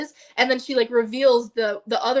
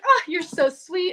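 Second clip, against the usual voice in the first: imitating a sweet, higher, drawn-out thank-you; touched thanks; 6 semitones higher, 4 dB louder, slower than usual. Friend thanking her for a card, sweetly gushing. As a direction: gush a little, slowly.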